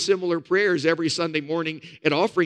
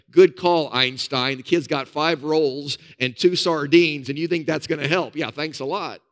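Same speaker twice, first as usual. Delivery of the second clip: sarcastic. Retold or imitated. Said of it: "I could just see Peter, his brother, saying".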